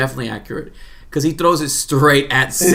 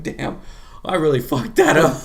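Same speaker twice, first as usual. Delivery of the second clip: laughing quote. Retold or imitated. Singh botches knife throw, laughing.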